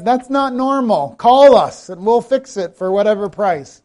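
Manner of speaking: hammed-up TV commercial pitch, a touch slow at first; mock ad voice. Preacher imitating a radio ad, mock pitch voice. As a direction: sell it like a basement repair ad. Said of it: "heard that advertisement".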